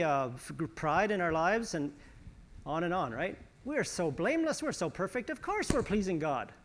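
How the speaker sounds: mock self-congratulation; sarcastic. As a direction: claim perfection with tongue in cheek. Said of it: "Now, I'm being sarcastic".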